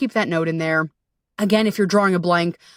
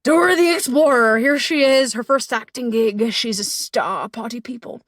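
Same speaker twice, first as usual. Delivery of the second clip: mock announcer; 3 semitones higher than usual. Announcing herself as Dora.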